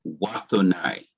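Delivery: "Wathonai" read slowly, falling at the end; careful reading demonstration. Shown as a demonstration. Teacher shows how the joined word reads, careful demonstration. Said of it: "This would read".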